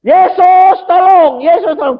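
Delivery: loud, high desperate cry for help; desperate mother yelling for help. Retold or imitated. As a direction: call out to Jesus, begging. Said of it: "Teriak-teriak".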